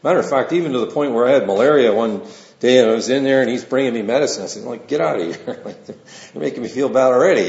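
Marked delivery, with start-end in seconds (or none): 4.9-7.5 quick, laughing mock complaint; laughing mock grumble. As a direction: grumble in jest through a laugh. Jokingly retelling his sickbed grumble.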